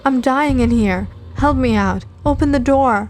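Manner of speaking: crying again. Acted. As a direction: drag out each plea as if dying. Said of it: "Wendy suddenly began to cry again".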